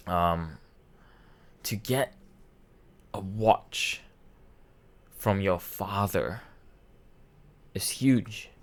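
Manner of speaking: real choked-up halting delivery; moved, with long pauses between phrases; breaking up. Real, not acted. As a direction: struggle to get the words out. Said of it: "I'm breaking up saying, saying this".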